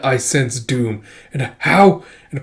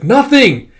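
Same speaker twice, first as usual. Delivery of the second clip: high denial; 11 semitones higher, 7 dB louder than usual. Acted. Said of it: "It's like".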